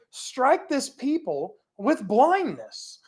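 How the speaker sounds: deliberate and slow, leaning on blindness; slow, drawn-out prayer. Shown as a demonstration. Preacher repeating Elisha's curse, slow and deliberate. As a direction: stretch out the words with blindness. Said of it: "repeated slower as emphasis".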